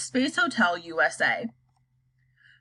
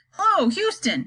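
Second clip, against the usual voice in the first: cried into the mic; 8 semitones higher than usual. Acted. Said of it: "he cried it into the mic".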